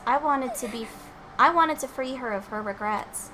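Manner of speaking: lightly voiced anime schoolgirl; voiced game character. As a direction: read it as the sorrowful girl.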